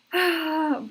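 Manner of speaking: tearful sigh. Real, not acted. Emotional after reading praise.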